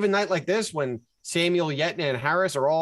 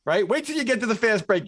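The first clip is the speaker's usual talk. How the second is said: imitating his co-host; 5 semitones higher than usual. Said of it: "you said to me".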